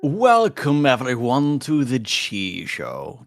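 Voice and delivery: drawn-out announcer welcome; show host intro. Pretend. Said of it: "I could go full, like".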